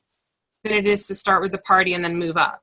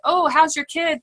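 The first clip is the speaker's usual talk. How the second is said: mock small talk, pitched up high; fake friendliness; 7 semitones higher than usual. Cold-calling someone she barely knows, fake friendly. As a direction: put on a high, fake-friendly phone greeting. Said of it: "be fake and be like".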